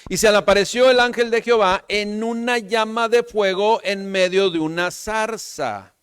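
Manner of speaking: high, loud scripture declamation; lectura bíblica proclamada. Acted. (lectura bíblica en voz alta y aguda)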